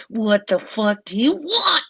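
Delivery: high, loud outburst at a stranger; irritated shout. Retold or imitated. She whirls on whoever keeps poking her, irritated shout. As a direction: yell it, fed up with being poked. Acted snapping back at a poker.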